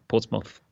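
"Portsmouth" ending like "moth"; British pronunciation. Shown as a demonstration. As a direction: say "Portsmouth" rhyming its end with "moth". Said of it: "Imagine it's like a moth".

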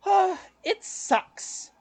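high, drawn-out wail of complaint; mock yell. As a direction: imitate her yelling out, long and high-pitched. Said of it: "she just yells out".

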